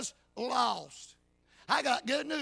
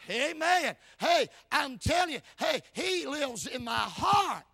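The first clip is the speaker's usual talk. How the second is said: raised, emphatic preacher's voice; fervent preaching; 3 semitones higher, 4 dB louder than usual. Real, not acted. Preacher insisting to doubters he is saved, fervent preaching. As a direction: preach it with rising fervor.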